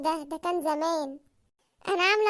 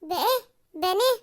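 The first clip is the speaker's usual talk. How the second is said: mocking laugh. Wife laughs at his wish.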